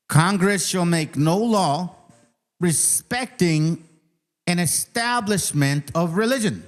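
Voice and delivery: slow, deliberate reading of "Congress shall make no law"; reading slowly. Shown as a demonstration. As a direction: spell out each clause slowly, word by word. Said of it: "but I'm gonna read it slowly".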